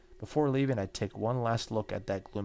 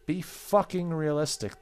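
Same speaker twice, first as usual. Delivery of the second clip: mocking coworkers; 7 semitones higher, 5 dB louder than usual. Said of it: "they said".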